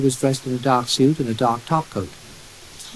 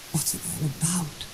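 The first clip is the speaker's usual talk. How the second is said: pleading; 3 semitones higher, 10 dB quieter than usual. A narrator's reading. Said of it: "pleaded Lowry".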